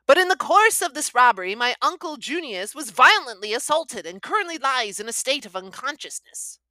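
put-on high, tremulous young man; quavering, nervous young nephew; thin trembling voice. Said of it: "said Bastable in a thin, trembling voice".

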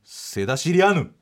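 セダシリアヌ said slowly, syllable by syllable; backwards speech. Shown as a demonstration. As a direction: read セダシリアヌ as a reversed phrase. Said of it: "逆行すると".

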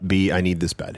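lightly voiced lazy cat; a barely changed cat voice; cat impression. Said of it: "That's my cat impression".

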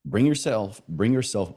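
a hint of Southern accent slipping out. Real, not acted. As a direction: let a light Southern accent creep in. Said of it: "my Southern accent just made a quick little guest appearance".

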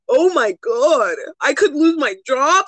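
mocking fake distress, slow and whiny; hammed-up crying over consequences; mock panic. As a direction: mimic someone panicking about losing their job. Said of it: "they wanna act fucking surprised".

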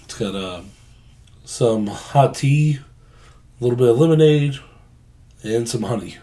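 hoarse, a little under the weather; husky sick voice from a sore throat; raspy voice. Real, not acted. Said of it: "sounding like you're a little under the weather".

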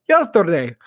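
put-on "Yesterday" said with a Mexican accent, lightly; a mild attempt at a Mexican accent on "Yesterday". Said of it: "I tried to do a Mexican accent".

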